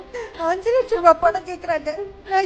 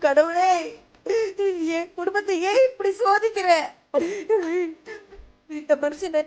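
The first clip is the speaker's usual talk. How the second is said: crying. Acted. Mother cries out to god.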